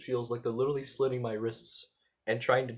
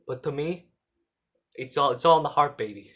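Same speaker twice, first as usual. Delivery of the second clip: louder New York-esque cartoon accent; Joey Wheeler; 5 dB louder than usual. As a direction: toss it off in a New Jersey dub accent. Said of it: "talking in the Joey accent".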